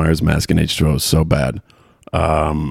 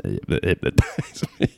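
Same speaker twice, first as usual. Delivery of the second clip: low, slow, laughing Chicago parody; Kevin Bacon's Chicago accent; 9 semitones lower, 6 dB quieter, slower than usual. Retold or imitated. Podcaster who has only seen the movies, mock Chicago accent. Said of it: "maybe that is how they talk".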